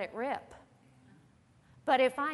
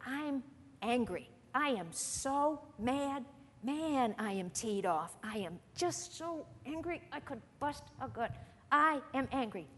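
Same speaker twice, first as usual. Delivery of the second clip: mock angry talk; 4 dB quieter than usual. Preacher mimicking how we all talk when angry, understated. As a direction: act out mild, pent-up anger without raising the voice. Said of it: "we all talk like this".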